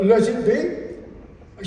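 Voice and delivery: slow, careful drawn-out lyric; slow mock dictation. To the guitarist, slow mock dictation. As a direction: spell it out slowly like taking notes.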